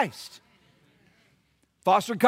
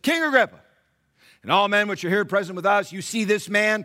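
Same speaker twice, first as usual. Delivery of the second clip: formal royal address; 2 semitones higher, 6 dB louder than usual. Acted. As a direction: announce it to the king's court. Festus addresses the king.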